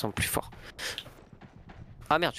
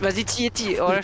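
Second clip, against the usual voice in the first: higher, louder urgent call; urgent shout; 8 semitones higher, 5 dB louder, slower than usual. Real, not acted. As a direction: push them to fire, fast. Urging teammate to shoot.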